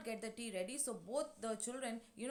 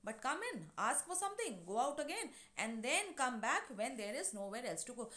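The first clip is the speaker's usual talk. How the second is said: prompt retort. Retold or imitated. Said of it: "she is very prompt".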